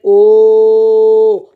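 sudden loud cry of alarm; shouted oh. Retold or imitated. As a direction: blurt it out as a shout. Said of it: "Mariam now shouted".

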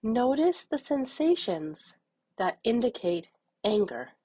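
measured meditation voice with long pauses; unhurried, even guidance, leaving room to breathe; guided meditation. Acted. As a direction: guide them gently through noticing anger.

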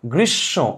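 "গ্রীষ্ম" with doubled sh and a nasal final o; nasalized ending. Shown as a demonstration. Teacher showing the chandrabindu sound, nasalized ending. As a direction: pull the end of "গ্রীষ্ম" through the nose. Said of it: "নাক দিবেন".

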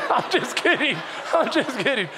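amused, laughing through the words; chuckled just-joking admission. Real, not acted. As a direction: break into a laugh as you take it back. Laughs off his own gloomy act.

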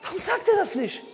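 scoffing laugh at the question. Real, not acted. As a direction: ask it with a disbelieving laugh. Preacher mocks the missing answer.

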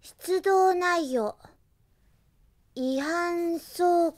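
reading report aloud. Acted. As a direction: read your duty report carefully, word by word. Reads her written report aloud.

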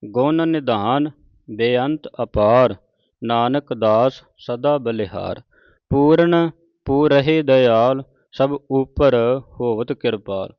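slow, measured Gurbani reading; measured devotional recitation; scripture recitation. Acted. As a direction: recite each phrase deliberately, drawing out the vowels.

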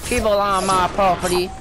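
spring out from the bush, teasing; mock gotcha. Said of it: "and you can be like".

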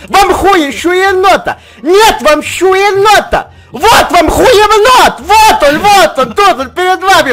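comic announcer. Acted. Kids acting comic skit, announcing.

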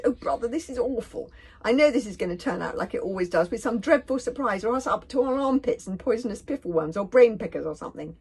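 loud, high fretting; panicky cry. A narrator's reading. Fishlegs dreading another horrible surprise, panicky wailing. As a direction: wail about the coming disaster. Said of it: "cried Fishlegs".

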